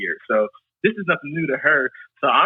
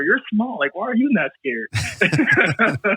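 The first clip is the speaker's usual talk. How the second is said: higher, slow, laughing question to the dog; amused disbelief; 6 semitones higher, much slower than usual. Retold or imitated. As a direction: laugh through it, baffled. Scolding the calm Chihuahua.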